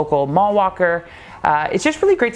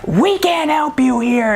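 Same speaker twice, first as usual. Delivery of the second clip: higher, mock yell at a hustler; mock scolding; 11 semitones higher than usual. Eve chasing off a hustling customer, mock angry scolding. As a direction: play the tiny shopkeeper throwing someone out. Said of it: "be screaming".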